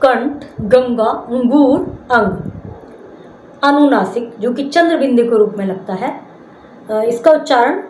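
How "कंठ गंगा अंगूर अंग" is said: कंठ, गंगा, अंगूर, अंग with the nasal consonant sounded through the nose; nasal anusvara. Shown as a demonstration. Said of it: "इसका उच्चारण नाक से होता है". (कंठ, गंगा, अंगूर, अंग में नाक से अनुस्वार)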